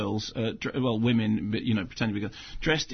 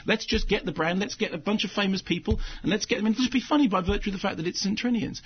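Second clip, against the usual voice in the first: eager pitch; 6 semitones higher than usual. Retold or imitated. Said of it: "because somebody went".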